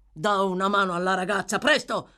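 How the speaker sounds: urgent order, rising to a loud finish; impatient. A narrator's reading. Sykes calls for help for fainted girl, impatient. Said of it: "rispose Sykes spazientito".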